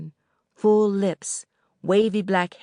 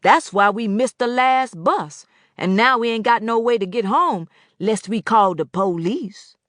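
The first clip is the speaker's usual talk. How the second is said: complaining; 4 semitones higher, 5 dB louder than usual. Acted. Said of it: "Mister Boatwright complained".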